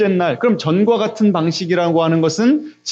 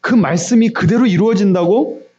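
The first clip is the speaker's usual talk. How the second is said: higher, incredulous echo questions; devil's doubting questions; 4 semitones higher than usual. Acted. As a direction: cast doubt like a tempter. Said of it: "이런 소리 들어보셨어요?". (못 믿겠다는 듯 되묻는 말투)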